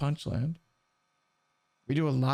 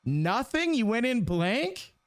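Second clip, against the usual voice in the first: high, stunned "you went in blank?"; shocked disbelief; 9 semitones higher, much slower than usual. Real, not acted. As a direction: ask it in total disbelief. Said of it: "Okay, I'll stop screaming".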